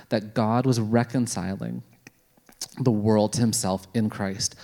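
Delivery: steady, measured Bible reading; earnest scripture reading to the congregation. Acted. Reads Bible passage aloud.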